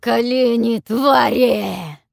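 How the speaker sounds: loud, slow booming dragon command; deafening dragon roar. A narrator's reading. Dragon orders the captives to kneel, booming roar. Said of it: "Оглушающе громыхнул ящер".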